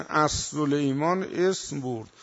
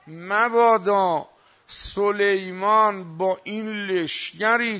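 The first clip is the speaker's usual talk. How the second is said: building to a loud cry on the last words; retold warning shout; 4 dB louder than usual. Ant chief warning the ants to hide, building shout. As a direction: urge the ants to run home. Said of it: "فریاد زد".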